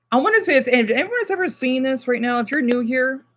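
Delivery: real displeasure, voice pushed up; unhappy, serious warning. Real, not acted. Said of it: "I'm not a happy camper".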